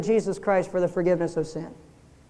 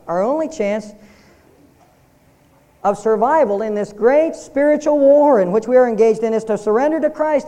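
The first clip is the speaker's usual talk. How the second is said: forceful preaching; 2 semitones higher, 5 dB louder than usual. Real, not acted. Preacher drives home the point.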